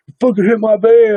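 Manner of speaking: hammed-up yell from a grumpy stranger; angry old man yelling. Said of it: "He's like".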